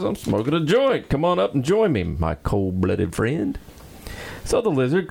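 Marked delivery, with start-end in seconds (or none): 0.0-3.6 higher, lightly voiced stoner; mellow stoned monkey. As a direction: invite a friend up in a stoned voice. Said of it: "And the monkey says".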